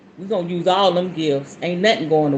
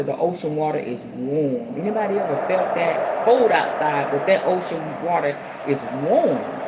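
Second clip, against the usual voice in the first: guided meditation. Acted. Guiding viewers into a calm sitting posture. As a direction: settle the listeners into their seats.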